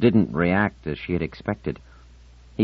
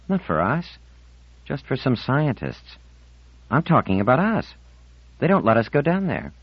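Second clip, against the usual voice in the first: put-on high-pitched girl complaining; aggrieved Marlena; 9 semitones higher than usual. Marlena objects that the dome isn't for them, high and aggrieved. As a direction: push back in a high girlish voice.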